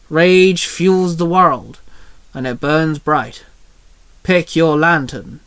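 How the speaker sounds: very slow, measured pronouncement; solemn incantation. Acted. Mister Pocket's red ring starts glowing, slow solemn incantation. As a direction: intone it slowly, phrase by phrase.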